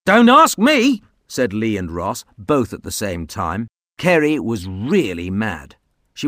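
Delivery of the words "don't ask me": high loud defensive denial; child voices. Acted. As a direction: deny it loudly. Boys deny together.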